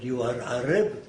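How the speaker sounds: lightly imitated Arabic accent, broken English question; a hint of Elbaz's Arabic accent, asking; Arabic accent imitation. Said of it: "That's the way he spoke".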